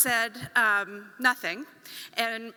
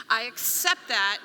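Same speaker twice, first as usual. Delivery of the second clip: slow, solemn, a little louder; slow solemn acceptance; 5 dB louder than usual. Retold or imitated. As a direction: accept it like a formal offer. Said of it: "like something had been offered".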